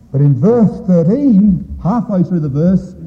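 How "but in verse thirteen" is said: usual speaking voice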